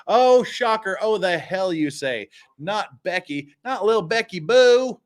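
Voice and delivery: high mock gasp of disbelief; sarcastic shock. Streamer mocking the clerk's innocence, sarcastic. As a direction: play it fake-shocked.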